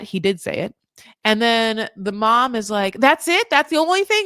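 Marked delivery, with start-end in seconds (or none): 3.0-4.3 high, loud mock disbelief; imitating an incredulous mother's reaction; incredulous mom. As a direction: question it in disbelief, pitched way up. Acts out the mom's incredulous reaction.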